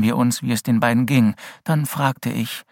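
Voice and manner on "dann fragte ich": ordinary delivery, nothing marked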